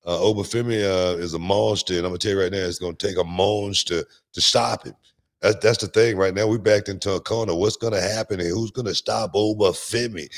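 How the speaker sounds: put-on lightly done Jamaican accent, hyping a wrestler; a hint of Jamaican accent, excited praise. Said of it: "that's my Jamaican accent".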